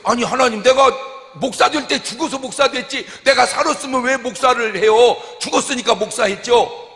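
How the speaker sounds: 높고 크게 외치며; 하나님께 목청 높여 대답하듯; 외치는 항변. Real, not acted. (큰 소리로 항변)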